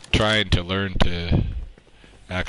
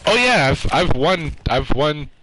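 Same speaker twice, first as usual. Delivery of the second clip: laughing; 7 semitones higher, 4 dB louder than usual. Real, not acted. Laughing after his own laugh.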